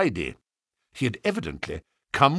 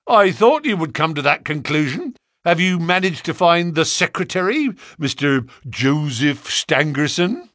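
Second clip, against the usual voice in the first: louder, smug needling question; triumphant; 5 semitones higher, 4 dB louder than usual. Acted. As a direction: rub it in. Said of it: "cried Gregson triumphantly".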